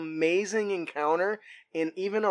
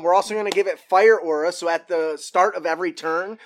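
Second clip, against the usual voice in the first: normal talking voice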